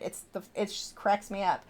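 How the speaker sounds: normal talking voice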